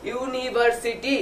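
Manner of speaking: "ইউনিভার্সিটি" slowly split into four parts; four syllables. Shown as a demonstration. Teacher showing a polysyllable, "ইউনিভার্সিটি" in four slow beats. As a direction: draw out each syllable of "ইউনিভার্সিটি". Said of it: "চারবারে উচ্চারণ করা যায়".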